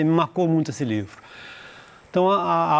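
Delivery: ordinary delivery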